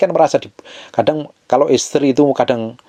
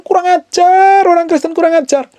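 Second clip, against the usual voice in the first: outraged scolding; 4 dB louder than usual. Pretend. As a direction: cry out in exaggerated indignation at the congregation. Preacher mock-scolds the congregation. (omelan melengking, dilebih-lebihkan)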